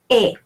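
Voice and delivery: "E" as the closed French vowel of final ER; French ER sound. Shown as a demonstration. Teacher giving the rule to learners, "E" as French final ER. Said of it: "are pronounced".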